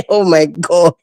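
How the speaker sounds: laughing through the words. Real, not acted. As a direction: chuckle out oh my God. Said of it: "I'm sorry I'm laughing".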